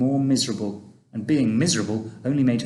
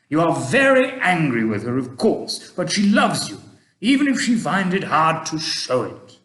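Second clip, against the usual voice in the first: put-on a kindly old gentleman, louder and gently advising; Mister Stink; 4 semitones higher, 6 dB louder than usual. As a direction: speak like an old tramp giving fatherly advice. Mister Stink comforting Chloe.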